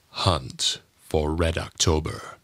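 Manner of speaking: low, slow ominous title; deep trailer voice. Shown as a demonstration. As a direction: intone the title darkly. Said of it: "announcer and movie trailer voices".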